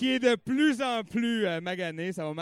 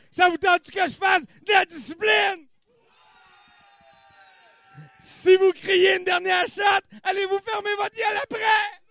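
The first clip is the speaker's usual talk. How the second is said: hammed-up angry yelling at crowd; mock scolding shout; 7 semitones higher, 7 dB louder than usual. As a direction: shout them down like a strict teacher.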